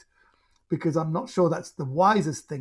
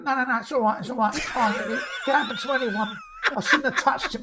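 lightly acted, higher-pitched hasty reassurance; matey brushing-off; 6 semitones higher, faster than usual. Storyteller voices hit bloke excusing his attacker, matey brushing-off. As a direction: play a bloke waving away an apology. Acting out victim brushing off apology.

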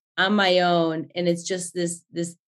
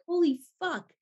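imitating a shocked executive, pitched much higher; shocked curse; 10 semitones higher, 4 dB quieter than usual. Executive sees the pregnant director, high stunned curse. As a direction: gasp it out like a stunned boss seeing her belly. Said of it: "they see me and they're like".

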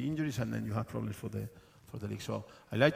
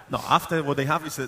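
laughing; 4 semitones higher, 11 dB louder than usual. Real, not acted. Laughing mid-answer.

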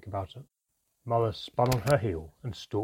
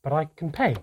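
raised, louder plea, less steely; insist, with the steel slipping; mother insisting to the dwarfs; insistent; 5 semitones higher, 7 dB louder than usual. A narrator's reading. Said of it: "Mother insisted, her voice less steely".

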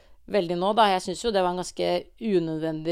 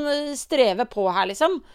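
ordinary delivery

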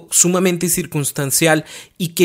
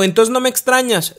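pleading partner; 8 semitones higher than usual. Retold or imitated. Partner asks plaintively, acted dialogue.

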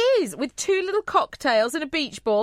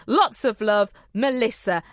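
put-on northern accent; 3 semitones lower than usual. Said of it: "Sorry about that northern accent".

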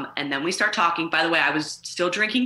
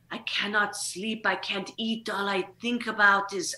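mock lovesick Frenchman; 2 semitones higher than usual. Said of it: "the way that he was talking was so".

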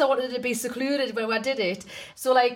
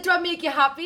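higher, louder retold repeat; 8 semitones higher, 3 dB louder than usual. Repeating the question after she says what, higher and louder. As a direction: say it again, pushing so she hears. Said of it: "I said".

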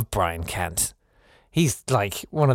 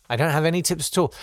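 "I don't have any tips at all" rattled off fast and higher; fast higher throwaway repeat; quick emphatic repeat; 5 semitones higher, faster than usual. Real, not acted. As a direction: hurry it out with a shrug. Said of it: "repeats his answer".

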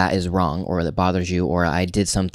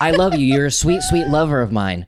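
loud, high, harsh "I love you"; exaggerated angry love line; mock angry declaration; 7 semitones higher, 4 dB louder than usual. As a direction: bark sweet words like a threat. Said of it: "But you're saying it so angrily".

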